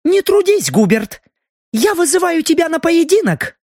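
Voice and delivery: high, scornful challenge; contemptuous. A narrator's reading. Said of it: "презрительно бросив".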